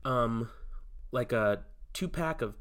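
smooth sponsor-read pitch; co-host doing a mock podcast sponsor spot. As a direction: sell it like a host reading an ad. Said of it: "That one sounded like a real podcast ad".

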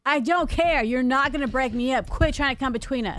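defiant protest. Pretend. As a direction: push back like a fed-up shopper. Mock quarrel defending her store.

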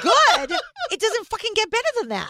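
excited disbelief. Real, not acted. Shocked at credit score.

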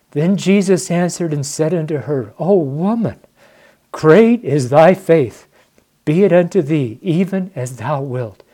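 real tears rising as he reads "great is thy faith"; tearful reading. Real, not acted. Trucker moved to tears by the verse, tearful reading. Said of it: "You see, now I'm crying".

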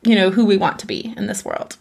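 encouraging self-talk. Retold or imitated. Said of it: "embody a firm parent".

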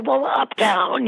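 slow, high, casual answer; drawled high uptown, a touch sheepish; mock reply. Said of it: "And I go".

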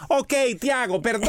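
high, quick brush-off sorry; lightly hammed-up impatient wife; imitating hurried apology. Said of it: "El perdón acelerado".

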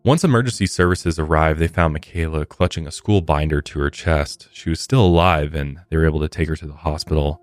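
measured podcast story read; true-crime narration. Real, not acted. Host recounting a shooting to listeners, measured narration. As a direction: read the case account clearly and evenly.

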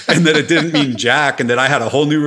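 real laugh while admitting a truth. Real, not acted. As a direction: laugh it out in disbelief. Laughing at his own realization.

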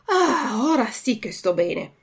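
lightly voiced contented puppet; full puppet gloating after eating. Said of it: "disse gongolando".

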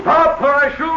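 high loud yell; shouted threat. Acted. Villain yelling at the fleeing captain and senor. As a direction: yell the warning as they run.

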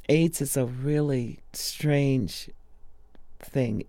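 slow hushed whisper. Real, not acted. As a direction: drop to a slow whisper about the illness. Drops to a whisper.

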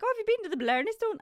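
high, quick mock enthusiasm; mimicked gushing tourist. Mimics people asking about Blarney Stone.

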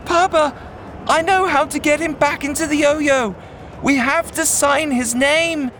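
put-on boy yelling to his father through the wind; yelling over wind. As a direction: shout it over a howling storm. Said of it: "Aziz yelled to his father through".

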